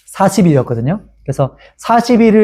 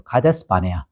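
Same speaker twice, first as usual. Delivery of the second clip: whispered name; 10 semitones lower, 7 dB quieter than usual. Shown as a demonstration. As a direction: whisper 가데스 바네아 softly, unvoiced. Stressing key place name.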